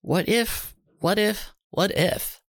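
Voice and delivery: put-on boy panicking about being watched; anxious worry. A narrator's reading. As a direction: let the worry spiral. Charlie's anxious racing thoughts.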